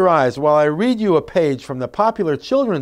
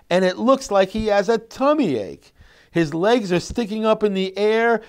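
expressive description. Shown as a demonstration. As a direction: paint the sick dragon gently for the listener. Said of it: "convey all that information".

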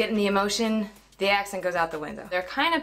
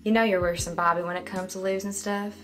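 Texas melody, forward vowel on "worse"; Texas accent; faster than usual. Retold or imitated. Coach imitates the film character's Texas accent. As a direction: echo the line in a Texan accent. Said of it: "melody is quintessential Texas".

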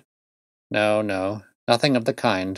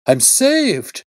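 much higher, louder joyful shriek; 6 dB louder than usual. A narrator's reading. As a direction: let it break into a shriek. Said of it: "With a shriek of joy".

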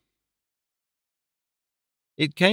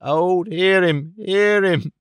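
slow, higher, mock cheering; scoffing exclamations; 4 semitones higher, much slower than usual. A narrator's reading. Panks mocks Clennam calling himself old, scoffing. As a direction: jeer at the idea with big slow hears. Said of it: "these exclamations".

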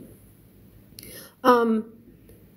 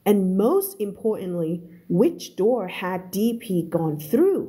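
slow, measured English reading; story read-aloud; much slower than usual. Shown as a demonstration. Teacher reading a novel to learners, slow narration. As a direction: read it slowly, word by word, for learners.

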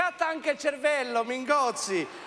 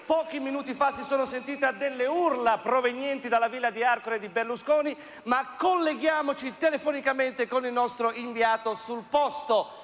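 news anchor voice. Acted. Parody newsreader.

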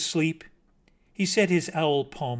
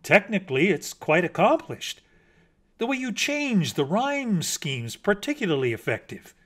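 higher, approving connoisseur; learned praise; 5 semitones higher than usual. Acted. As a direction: praise it like a pleased critic. Mockingbird's learned praise of poem.

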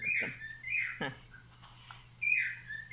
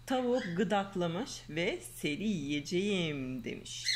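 lively storybook reading voice; reading to children; slower than usual. Acted. Mother reading a fairy tale to her daughter, lively storyteller. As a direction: read the tale aloud to a little girl.

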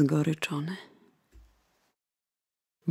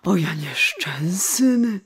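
groan. Acted. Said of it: "jęknął nieborak".

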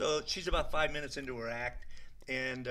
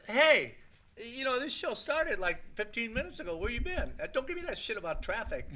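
Whoopi Goldberg; 10 semitones higher, 4 dB louder than usual. Retold or imitated. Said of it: "she goes".

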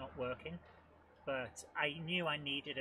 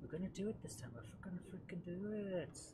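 quietly steeling himself for another try; hushed determination; 4 semitones higher, 5 dB quieter than usual. Real, not acted. Gamer psyching himself up, hushed and determined.

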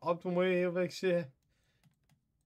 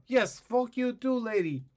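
mock angry yell; 7 semitones higher, 4 dB louder than usual. Inspector yelling back at the rude lady, mock angry shout. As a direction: shout it back, higher and louder.

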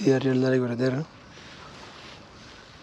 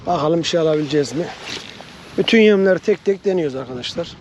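shouting over wind; 3 semitones higher than usual. Real, not acted. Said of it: "Hava esmeye başladı".

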